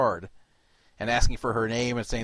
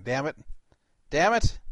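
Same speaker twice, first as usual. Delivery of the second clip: frustrated curse; 4 semitones higher, 3 dB louder than usual. Real, not acted. Hung up on the caller again.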